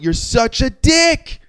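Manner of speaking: high, slow, laughing insult; laughing disbelief. Retold or imitated. Narrator laughing at the rude truck driver, high and slow. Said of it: "I was laughing".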